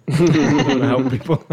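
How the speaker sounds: laughing through a mock quote. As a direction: giggle while saying it. Laughing imitation of hackers.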